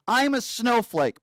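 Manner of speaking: "I'm a snowflake" slow, each word spaced; dictated line. Shown as a demonstration. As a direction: dictate it slowly, mocking. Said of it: "Repeat after me".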